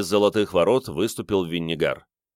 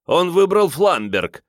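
high, loud and slow excited cry; exclaiming; 10 semitones higher, 5 dB louder, slower than usual. A narrator's reading. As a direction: burst out in delight. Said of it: "воскликнул меркиец".

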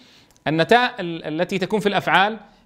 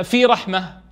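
في رحمة drawn out slowly, stopping on رحمة; slow pausal demo; slower than usual. Shown as a demonstration. Teacher slowly demonstrates the pausal form. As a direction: ease slowly into في رحمة and stop. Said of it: "فلا تجري عليها حركات الإعراب".

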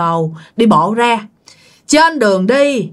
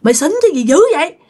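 fast, higher scolding from an annoyed father; angry father; 4 semitones higher, much faster than usual. Retold or imitated. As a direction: snap at the drunk son, quick and sharp. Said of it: "Ba của anh Chinh mới bực quá". (người cha bực bội mắng con, nói nhanh và cao giọng)

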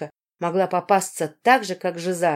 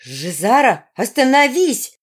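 higher, louder slow shout; girl yelling to stop a fight; shouting over her; 5 semitones higher, 6 dB louder, slower than usual. A narrator's reading. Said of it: "пыталась перекричать я девушку".

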